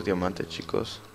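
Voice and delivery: slow, savouring Diamante, chicos; slow drawn-out repeat. Real, not acted. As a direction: stretch Diamante, chicos out slowly. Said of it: "repite lento y bajo". (diciendo Diamante, chicos despacio, saboreándolo)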